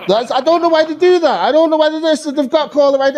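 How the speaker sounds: laughing, pitched high; words spilling out through laughter. Real, not acted. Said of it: "laughing through the joke".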